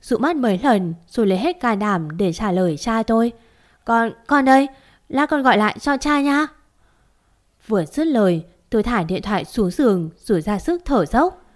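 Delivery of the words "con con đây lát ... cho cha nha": higher, louder, forcing words out through fear; shaky and scared. Acted. To her father on the phone, frightened and higher-pitched. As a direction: gather courage and answer though terrified. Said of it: "phải hít vào mấy hơi".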